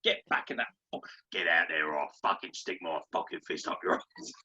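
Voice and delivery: gruff, gravelly threat; rough gravel-throated bollocking; gravel-voiced hard man. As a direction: growl threats like a tough football boss. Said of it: "who fucking talks like he eats gravel".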